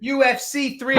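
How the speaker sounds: put-on a high, failed stab at an Australian accent; attempted Australian accent. Host attempting an Australian accent for the fight card, botched. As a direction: try the Australian accent and lose it. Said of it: "I cannot do that accent".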